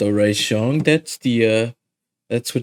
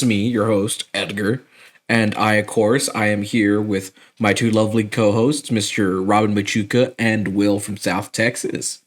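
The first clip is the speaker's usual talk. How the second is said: mouth full. Real, not acted. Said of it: "are you eating a donut".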